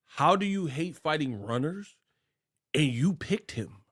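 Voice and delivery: whispered under the breath. Real, not acted. Vlogger whispering his jab at Canelo to viewers, whispered. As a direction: hush it like a secret aside.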